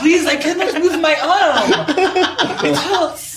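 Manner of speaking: high, loud, hammed-up French-ish plea; slow, pained plea in a mock French accent; French-sounding accent. Yelling a pretend plea about shackles, hammed-up French-ish accent. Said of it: "I like that he's French".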